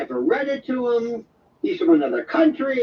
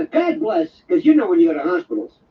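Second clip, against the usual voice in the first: ordinary talk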